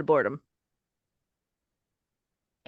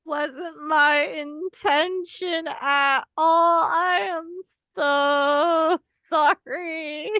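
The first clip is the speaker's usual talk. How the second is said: remorseful apology; 3 semitones higher, much slower than usual. Acted. Cat character apologizing after shoving.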